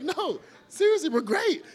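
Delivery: laughing cheer. Retold or imitated.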